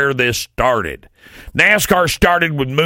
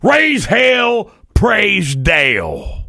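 rally cry shout; 9 semitones higher, much slower than usual. Shown as a demonstration. Host repeating the slogan as a hollered chant. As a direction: holler it like a race fan. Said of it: "I don't know why I have to say it like that".

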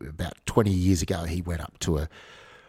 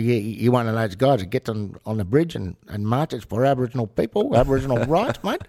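put-on Aboriginal Australian accent, louder and higher, teasing; Aboriginal English accent; 4 semitones higher, 4 dB louder than usual. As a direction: imitate an Aboriginal kid's accent, poking fun at him. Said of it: "It's actually not a bad accent".

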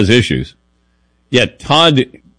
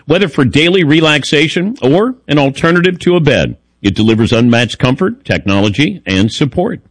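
upbeat sponsor read. Acted. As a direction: sell it like a radio spot. Reads a sponsor ad.

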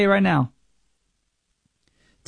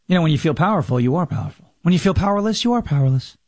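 mocking Kamala quote; 4 semitones lower, faster than usual. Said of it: "One more from Kamala Harris".

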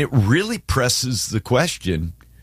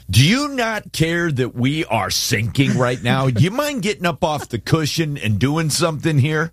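exasperated disciples; 3 semitones higher than usual. Pretend. All four of us waking Jesus in that boat, mock-exasperated. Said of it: "we're in that boat. We're all waking up, Jesus, going".

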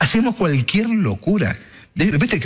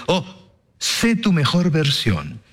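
mocking slogan; much slower than usual.

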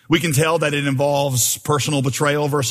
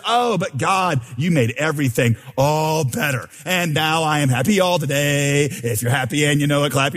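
mock cheerful ending. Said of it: "where the psalmist says".

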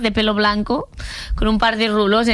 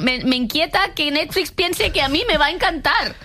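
higher, offended comic complaint; mock indignation; 5 semitones higher than usual. Real, not acted. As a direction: act personally offended. Continued comic outrage.

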